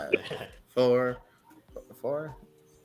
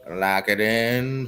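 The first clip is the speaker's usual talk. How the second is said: slow, level lock it in; slow flat; much slower than usual. Shown as a demonstration. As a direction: say it slow and final.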